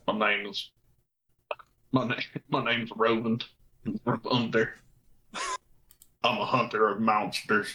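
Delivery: lightly gruff, chin-tucked voice; gruff hunter voice. Shown as a demonstration. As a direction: puff out the chest and say it. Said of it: "talk like that".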